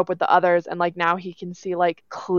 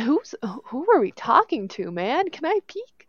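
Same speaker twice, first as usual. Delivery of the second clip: mock rabbit voice; 7 semitones higher, 4 dB quieter than usual. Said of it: "He's like".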